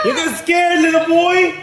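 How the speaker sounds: loud, high teasing yell; taunting shout. Real, not acted. Prankster to scared little boy, taunting shout. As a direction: tease the victim at the top of your voice.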